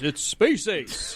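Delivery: slow, drawn-out heroic announcer; game announcer voice. Retold or imitated. Co-host imitating the Space Ace game narrator, slow heroic voice. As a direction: stretch it like an arcade game intro. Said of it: "the same voice of the guy that goes".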